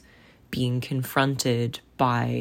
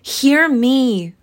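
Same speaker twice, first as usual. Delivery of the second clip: loud, high ghostly cry; 11 semitones higher, 9 dB louder than usual. A narrator's reading. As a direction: cry out to be heard. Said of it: "cried the ghost".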